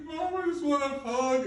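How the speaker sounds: put-on high, small child's voice; little boy pleading. Boy asking his mom for a hug, high and pleading. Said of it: "And Martin's like".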